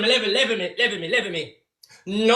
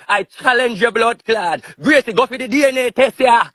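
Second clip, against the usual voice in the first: louder angry tirade; furious rant; 2 semitones lower, 6 dB louder than usual. Real, not acted. Challenging Gracie to take the DNA test, loud angry rant. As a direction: blast it out, daring her to do the test.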